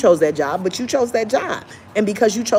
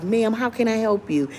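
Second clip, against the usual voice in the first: nice and sweet; 5 dB quieter than usual. Retold or imitated. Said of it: "They're all nice and sweet".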